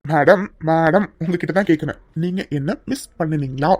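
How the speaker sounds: playful teasing. Acted. Husband teasing his wife.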